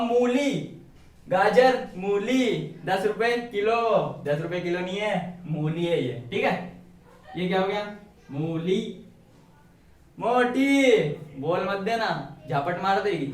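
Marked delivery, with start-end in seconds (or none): 0.0-3.8 drawn-out street hawker's call; mock market seller hawking vegetables; vegetable vendor's cry. 10.2-11.0 louder, mock name-calling; drawn-out jokey shout; teasing call-out.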